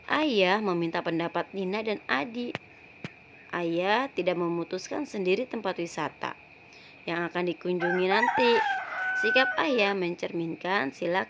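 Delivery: put-on reading a children's story aloud to the class. Teacher reading the story to her pupils, storybook voice. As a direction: tell it like a storybook to young pupils.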